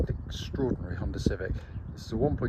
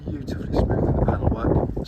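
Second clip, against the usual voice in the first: wind in the face; 6 semitones higher, 4 dB louder than usual. Real, not acted. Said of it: "Sorry, it's a bit windy today".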